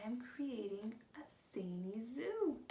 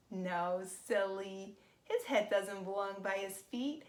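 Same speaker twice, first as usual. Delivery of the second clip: playful no; 6 dB louder than usual. Acted. Teasing the children's wrong guess.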